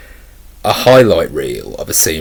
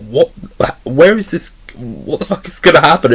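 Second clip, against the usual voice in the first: alarmed viewer; 8 semitones higher than usual. Retold or imitated. Viewer's alarmed reaction to scene.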